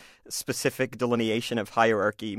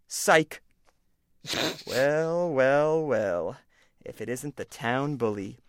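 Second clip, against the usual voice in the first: smug bully voice. Acted. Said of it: "this is called A Bully Does His Research".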